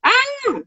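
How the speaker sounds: high-pitched pretend child's yell; brief high "ah" at ordinary volume; mock scream. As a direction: act out a child's scream without full force. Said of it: "Eu grito".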